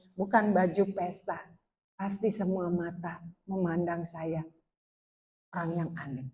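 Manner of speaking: low, soft, brooding self-talk; anxious inner thought. Retold or imitated. Young woman worrying to herself about the party, low and subdued. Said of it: "berpikir, berbicara seperti ini".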